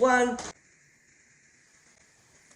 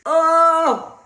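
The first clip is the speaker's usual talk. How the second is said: mouth burning from spicy food; 5 semitones higher, 6 dB louder than usual. Real, not acted. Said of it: "My mouth is burning".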